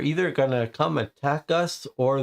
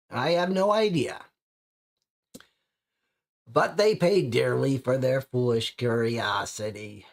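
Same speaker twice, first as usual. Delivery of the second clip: put-on old man voice. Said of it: "the old man voice".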